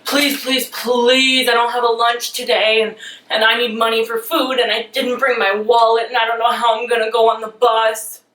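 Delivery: hammed-up whiny begging; mock pleading boyfriend. Boyfriend begging his girlfriend for lunch money, hammed-up whine. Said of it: "I am going to reenact this for you".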